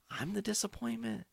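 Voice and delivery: high, soft sneering mimic of the aunt; mocking falsetto. Mocking the aunt's insult in a high voice. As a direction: toss her word back in a high mock voice.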